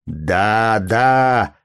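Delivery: yelling. A narrator's reading. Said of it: "орал полицейский".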